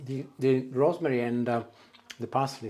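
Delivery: talking through a mouthful; words round a bite of food; mouth full. Real, not acted. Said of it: "sorry, I got my mouth full".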